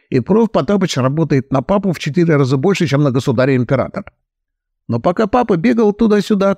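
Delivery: a hint of a fussy heir cursing; agitated fat son. Heir accuses his stepmother, lightly worked up. Kalman's long account.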